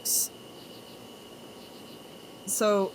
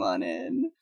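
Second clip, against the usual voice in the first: much lower, rising greeting; deep voice. Shown as a demonstration. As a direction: drop into a deep welcome voice. Greets the raid twice, two voices.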